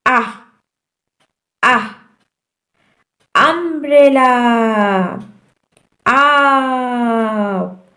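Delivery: "आह" as "uh", as in umbrella; short U sound. Shown as a demonstration. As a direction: stretch the end of "अम्ब्रेला". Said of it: "short sound क्या है?".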